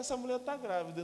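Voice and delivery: "Essa mulher tá grávida" high and loud, ringing with joy; excited repeat. Retold or imitated. Husband telling the crowd his wife is pregnant, excited. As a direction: proclaim "Essa" big and bright.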